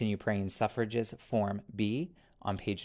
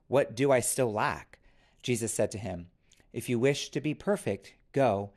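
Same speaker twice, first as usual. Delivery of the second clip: scripture reading. Acted.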